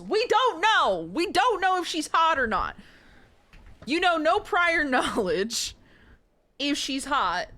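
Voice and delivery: fired up, hammering the point to chat; excited rant. Real, not acted. Excited rant about the witch.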